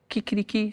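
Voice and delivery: soft mock crow, kikiriki; a light spoken kikiriki rooster call. Imitating the Colombian rooster with a soft kikiriki. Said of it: "la gallina en Colombia hace".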